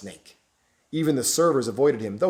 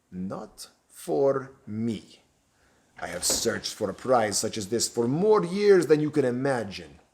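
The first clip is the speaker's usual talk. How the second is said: slow, menacing Romanian-tinged stranger; menacing villain; slower than usual. Acted. Stranger refusing the bishop, slow and menacing. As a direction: lean in and savour each word.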